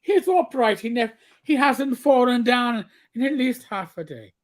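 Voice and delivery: lightly put-on Irish brogue; Irish dwarf. Dwarf vouching for the boy, mock-earnest Irish accent. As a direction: join in with a playful Irish lilt.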